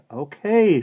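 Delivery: high, loud shouted reply. A narrator's reading. Maggie answers her aunt's call, shouting. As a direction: shout back down the stairs. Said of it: "she shouted".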